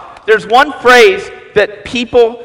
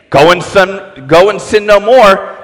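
harsh misread Jesus; 3 dB louder than usual. Retold or imitated. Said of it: "a tone of voice ... that is demonic".

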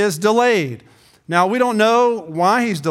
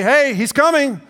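urgent calling; 5 semitones higher than usual. Retold or imitated. Runner back at the bride's house calling the bridesmaids out, urgent call. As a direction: wake everyone up, hurry them out. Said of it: "to say".

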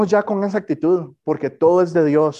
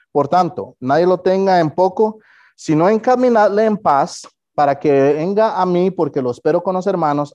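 scripture reading; 3 dB louder than usual. Acted. Reads scripture passage aloud.

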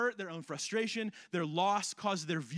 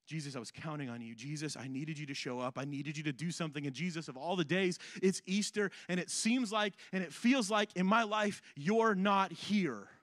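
hurt prayer. Pretend. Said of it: "our prayers sound like this".

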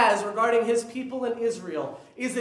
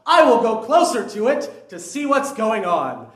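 mock Moses narrating; 3 semitones higher, 7 dB louder than usual. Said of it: "He stops and says".

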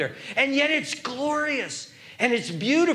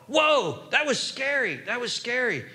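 startled reaction; 3 semitones higher than usual. Acted. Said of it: "It was like".

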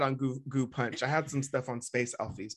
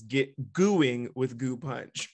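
ad slogan; 4 dB louder, much slower than usual. Retold or imitated. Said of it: "the slogan was".

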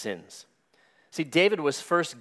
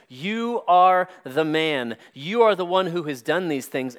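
Nathan; 2 semitones higher, 3 dB louder than usual. Retold or imitated. Prophet confronting King David over his sin, lovingly but sternly. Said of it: "Nathan lovingly but sternly says".

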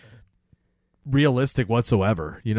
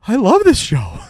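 mock gushing fan; 9 semitones higher, 5 dB louder than usual.

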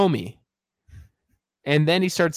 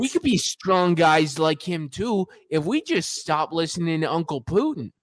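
put-on Russian accent; 4 semitones higher than usual. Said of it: "you gotta do it in Russian accent".

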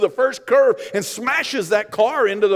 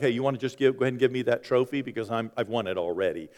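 cocky entitlement; 9 semitones lower, 5 dB quieter, faster than usual. Retold or imitated. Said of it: "you're just like".

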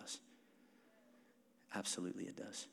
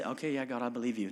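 half-hearted yes; 3 semitones lower, faster than usual. Retold or imitated. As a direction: shrug it off, saying yes with no intent. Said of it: "But he didn't just say".

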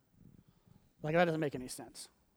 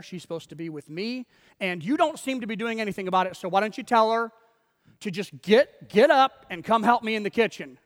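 lightly acted exasperated Martha; mock indignant complaint; 4 dB louder than usual. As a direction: build from pointed grumbling to a louder demand. Acting Martha complaining to Jesus.

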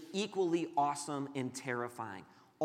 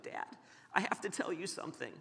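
imitating a child close to tears, softly; mild mock tearful confession, held back; tearful young son; 2 semitones higher, 6 dB quieter than usual. Son confessing to dad at the door, tearful. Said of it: "his eyes are already, you know, filled with tears".

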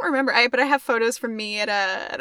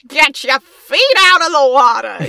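mock yell; 10 dB louder than usual. Mock quote.

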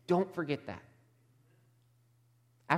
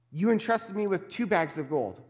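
excited servant; 4 semitones higher than usual. Retold or imitated. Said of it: "Again, there's excitement".

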